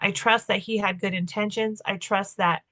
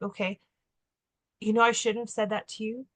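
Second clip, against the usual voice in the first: much softer, gentle admission of fault; soft apology; 5 dB quieter than usual. Retold or imitated. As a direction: ease off and own it quietly. Softly apologizing to her husband.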